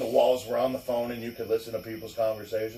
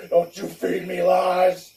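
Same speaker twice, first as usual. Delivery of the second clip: slow, stern dad scolding; stern father; 4 semitones higher, 4 dB louder, slower than usual. Retold or imitated. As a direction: scold it slowly. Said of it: "he's like".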